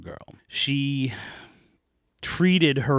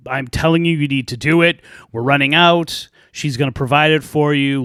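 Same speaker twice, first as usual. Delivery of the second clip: insistent stepmother; 3 semitones higher, 6 dB louder than usual. Acted.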